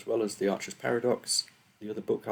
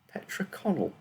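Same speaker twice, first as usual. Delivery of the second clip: put-on hesitant, higher, with a light French accent; 11 semitones higher than usual. A narrator's reading. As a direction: offer the name unsure, a touch of French. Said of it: "she added hesitantly, her French accent becoming more distinct".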